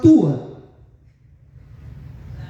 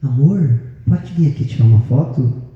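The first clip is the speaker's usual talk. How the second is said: lower, sweet call to his wife; tender to wife; 5 semitones lower than usual. Retold or imitated. Husband calling his wife over for a photo, mock tender. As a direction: coax your wife gently.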